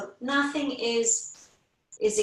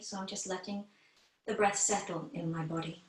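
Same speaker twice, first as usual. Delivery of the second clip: guided meditation; 2 semitones lower than usual. Acted. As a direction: ease the class into noticing their breath, gently. Teacher leads guided breathing meditation.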